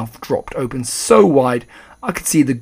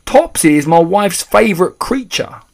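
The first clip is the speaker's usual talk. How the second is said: high, loud protest; dismayed cry; 7 semitones higher, 8 dB louder than usual. A narrator's reading. Father defending his wife's cat, crying in dismay. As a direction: keep the alarm up in a raised voice. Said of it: "cried Mister Jenkins".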